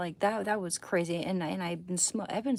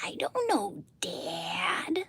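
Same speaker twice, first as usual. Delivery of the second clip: Bobby Hill voice; much slower than usual. Pretend. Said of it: "a female voiced Bobby".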